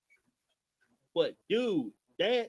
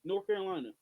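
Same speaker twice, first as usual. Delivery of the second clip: pitched much higher, addressing a state; calling out; 10 semitones higher than usual. Real, not acted. Host addressing North Carolina voters directly, calling out. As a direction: call out North Carolina pointedly.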